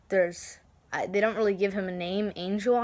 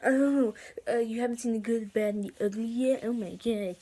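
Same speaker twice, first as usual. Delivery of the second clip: mock shocked viewer; 3 semitones higher than usual. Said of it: "before anyone says".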